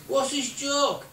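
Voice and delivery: high, loud yell back; shouted reply. Retold or imitated. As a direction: holler back from a distance. Shouted exchange in space.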